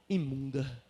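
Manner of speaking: low, quiet, barely said; hushed, no time to shout. Retold or imitated. Preacher imagining the crowd too stunned to shout, quiet low murmur. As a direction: drop it to an unshouted murmur. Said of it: "não tiveram tempo nem de gritar".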